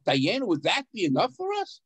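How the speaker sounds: Dayenu asked as a doubting question. Shown as a demonstration. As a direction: turn Dayenu into a real question. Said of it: "you say it in a question mark".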